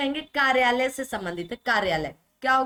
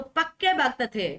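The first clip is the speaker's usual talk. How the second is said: "पक्के" ज़ोर देकर, सही रूप की तरह; "पक्के" शब्द पर बल दें; stress on पक्के. Shown as a demonstration. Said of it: "पक्का नहीं". ("पक्के" पर ज़ोर)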